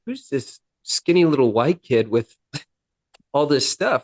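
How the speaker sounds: imitating a baffled police officer; mildly incredulous retold question, pitch lifting late; bewildered. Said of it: "he's just kind of bewildered".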